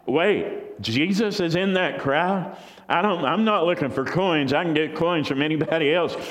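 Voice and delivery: a blind beggar suddenly hearing his chance; eager crying out. Acted. Blind beggar learns Jesus is near, eager and pleading. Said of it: "he starts crying out".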